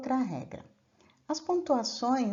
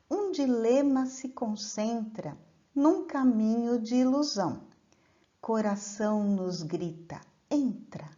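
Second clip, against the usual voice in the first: measured, unhurried verse reading; poem recitation; 2 semitones lower than usual. Acted. Teacher recites a trova to the class, measured and poetic. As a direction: declaim the trova with care.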